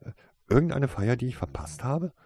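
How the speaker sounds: high, lively cheerful question; breezy, happy curiosity. A narrator's reading. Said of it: "erkundigte sich Misses Darkcloud fröhlich".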